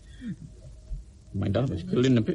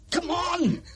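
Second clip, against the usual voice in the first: much higher, yelling challenge; shouted taunt; 14 semitones higher than usual. Acted. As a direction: bellow at him to fight. Goading into a fight.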